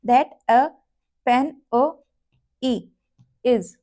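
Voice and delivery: each word followed by its bare vowel sound; word then vowel. Shown as a demonstration. Teacher showing vowels inside the phrase. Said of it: "इसके अंदर ही आपकी vowel की sound है".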